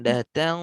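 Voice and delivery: datang with a heavy, full ng; thick ng. Shown as a demonstration. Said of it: "sekarang tebalkan".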